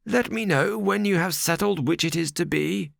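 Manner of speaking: mock them as they leave; sardonic. Ferrier seeing the suitors out, sardonic. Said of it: "he said sardonically".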